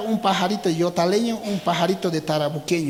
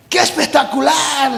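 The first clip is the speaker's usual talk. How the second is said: higher, louder praise; admiring cry; 7 semitones higher, 5 dB louder than usual. Acted. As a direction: cry out in awe. Animals admire flying frog. (exclamación admirada)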